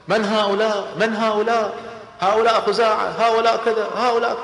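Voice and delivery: anxious questioning. Acted. Abu Sufyan's heart shaken, asking.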